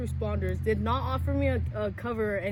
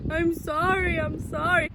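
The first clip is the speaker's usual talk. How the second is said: mild hysterical apology; 7 semitones higher, 6 dB louder, slower than usual. Retold or imitated. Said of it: "I was getting all hysterical".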